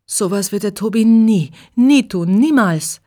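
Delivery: höher und lauter, empört verteidigend; total aufgeregt. A narrator's reading. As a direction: den Freund mit Nachdruck in Schutz nehmen. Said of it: "Regina ist total aufgeregt". (aufgeregt verteidigt Regina ihren Tobias)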